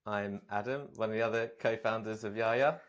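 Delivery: slightly stilted intro, echoing the host; copied staccato introduction. Real, not acted. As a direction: softly parrot an awkward introduction. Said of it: "you then copied as well".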